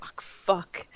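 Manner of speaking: a dismayed whispered swear; whispered curse. Retold or imitated. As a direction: whisper it under your breath. Caught out by a real Frenchman.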